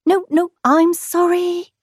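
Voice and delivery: mock frightened stammer; stammered apology. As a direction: beg quickly. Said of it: "stammered Kangaroo".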